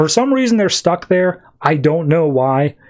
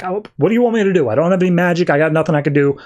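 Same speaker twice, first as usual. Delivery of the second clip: mock-exasperated, higher and rushed at first; retold protest in a raised pitch; exasperated retort; 4 semitones higher, faster than usual. Amethyst answers Hawkman's yelling that she is powerless, exasperated.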